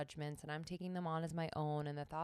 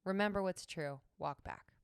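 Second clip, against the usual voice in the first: louder, firm pep talk; 7 dB louder than usual. Shown as a demonstration. Teacher demonstrating a firm pep talk to herself. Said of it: "pep talk moment of".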